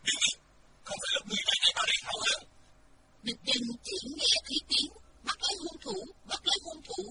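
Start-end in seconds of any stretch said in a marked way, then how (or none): 0.1-2.4 loud, fast furious yell; angry shout. A narrator's reading. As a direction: charge at him shouting. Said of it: "hét". (hét lớn giận dữ)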